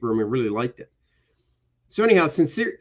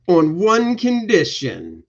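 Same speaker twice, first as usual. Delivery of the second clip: mock demand; 5 semitones higher, 7 dB louder, slower than usual. Barbarian states his terms.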